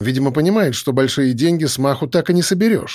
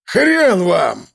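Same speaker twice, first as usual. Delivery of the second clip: rough, high spiteful yell; angry shout; 5 semitones higher than usual. A narrator's reading. Gunman angrily refusing the police. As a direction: spit the refusal out. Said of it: "вдруг обозлившись, выкрикнул Жорич".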